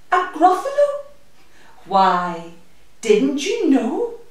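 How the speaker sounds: high squeaky boast, Gruffalo flying up; a tiny mouse bragging. Acted. Mouse teasing the owl about the Gruffalo, squeaky.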